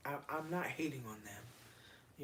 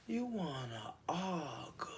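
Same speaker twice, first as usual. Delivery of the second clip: laughing quote; slower than usual. Real, not acted. Quoting song through laughter.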